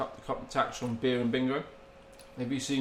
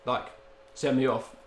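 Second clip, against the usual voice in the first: really polite; 2 semitones lower, 4 dB quieter than usual. Retold or imitated. Retelling player owning up to referee, mildly polite. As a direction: politely own up, understated. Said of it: "like, really politely".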